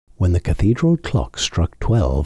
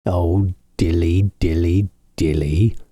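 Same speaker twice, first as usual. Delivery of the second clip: sighed. A narrator's reading. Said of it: "sighed Simpkin".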